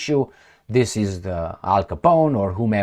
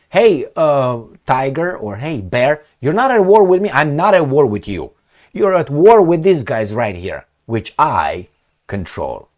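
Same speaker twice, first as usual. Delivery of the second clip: taunting the tiger, higher and louder; mock puppet-master taunt; 5 semitones higher, 6 dB louder than usual. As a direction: play the smug ringmaster coaxing the beast. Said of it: "And these guys say".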